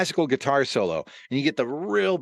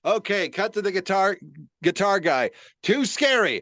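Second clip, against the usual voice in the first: higher-pitched director calling the shots; acted control-room director; live TV director; 7 semitones higher than usual. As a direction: call cuts like a harried live director. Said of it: "It was some live director".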